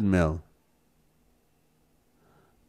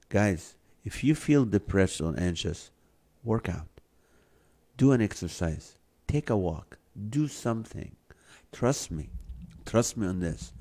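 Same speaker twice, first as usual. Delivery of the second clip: warm and persuasive; 6 dB quieter than usual. Real, not acted. Urging viewers to exercise.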